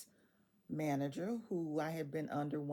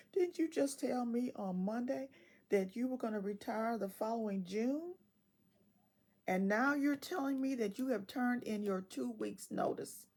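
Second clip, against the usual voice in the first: disbelief; 5 semitones higher than usual. Retold or imitated. Disbelief at manager's change.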